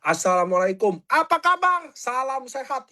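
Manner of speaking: sing-song mock greeting that rises high on kabar; mock sweet polite welcome; overly polite greeting. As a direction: parody the stiff polite TikTok opener. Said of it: "hindari sopan santun berlebihan".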